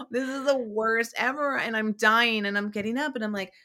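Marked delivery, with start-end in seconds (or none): 0.0-1.6 higher-pitched retold dread; mock panic. Actress retelling her waiting-room nerves, mock panic.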